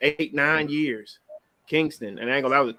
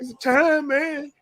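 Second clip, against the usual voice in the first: choked up; 12 semitones higher, much slower than usual. Retold or imitated. Dad telling son dog died.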